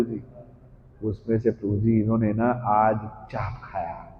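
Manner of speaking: hushed, halting gossip report; tattling informant. Acted. News-carrier reporting to prabhu who ate what, tattling. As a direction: tell tales softly, with little pauses. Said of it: "कुछ लोग होते हैं खबरी लाल".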